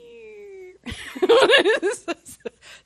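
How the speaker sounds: high whine breaking into laughter; high squeal dissolving into laughs; imitated shade noise. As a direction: mimic a shade being pulled down, then laugh. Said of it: "I wanna do Pastor Sam's favorite".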